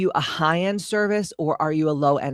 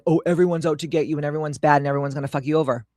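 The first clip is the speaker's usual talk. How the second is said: fast, run-on generalization; rapid dismissive quote; much faster than usual. Acted. Coach disclaiming that everyone's out to get you, rattled off quickly. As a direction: rattle it off as a list of exaggerated worries. Parodies a distrustful blanket attitude.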